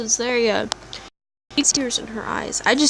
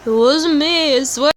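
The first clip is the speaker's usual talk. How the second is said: defensive denial; 5 semitones higher than usual. Acted. Accused character denies.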